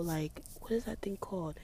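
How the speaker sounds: whispered aside. Real, not acted. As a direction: whisper the question to yourself. Narrating scene outside quietly.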